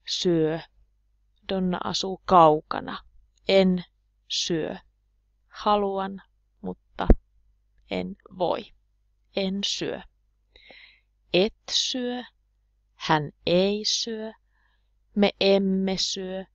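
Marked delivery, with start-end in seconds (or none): none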